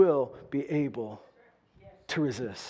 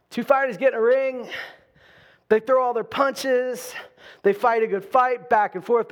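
raised, driving preacher voice; preaching at full force; 2 semitones higher, 3 dB louder than usual. Acted. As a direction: preach it out big to the room. Preaching boxing illustration.

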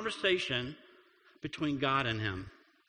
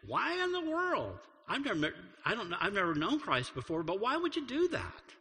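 incredulous seeker; 4 semitones higher than usual. Retold or imitated. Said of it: "people here that are leaning in saying".

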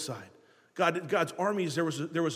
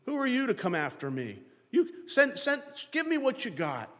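taunting giant. Retold or imitated. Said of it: "He'll stand out there saying".

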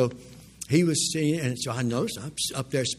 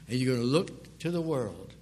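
ordinary talk, nothing marked

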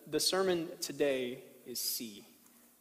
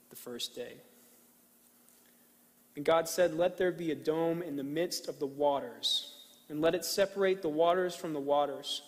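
scripture reading. Acted. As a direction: read it with reverent pauses. Reads Genesis slowly to congregation.

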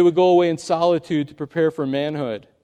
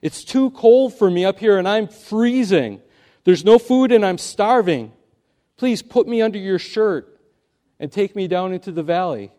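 snake begging for help; 2 semitones higher, 3 dB louder than usual. Acted. Snake begging the youth to carry him down, pleading. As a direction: beg like a freezing, starving snake. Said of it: "said the snake".

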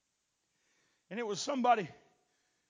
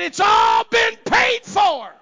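slow, high proclamation shouted; shouted slow victory cry; triumphant shout; 23 dB louder, much slower than usual. Retold or imitated. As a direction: proclaim it from the pulpit. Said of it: "I said".

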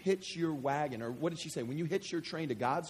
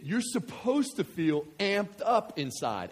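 usual speaking voice

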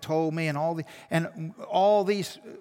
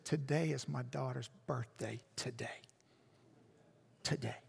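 much softer and lower, fading to almost nothing; hushed and moved; 5 semitones lower, 12 dB quieter than usual. Retold or imitated. Grandmother telling the pastor it is her late daughter's birthday, hushed and moved. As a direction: let each "today" sink quieter.

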